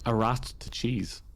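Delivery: patient slow repeat. Shown as a demonstration. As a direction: spell it out slowly for a confused partner. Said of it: "like a what?".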